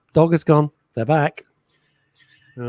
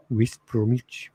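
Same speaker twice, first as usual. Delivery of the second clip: put-on Black Country accent; 2 semitones lower, 5 dB quieter, slower than usual. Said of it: "a Brummy accent".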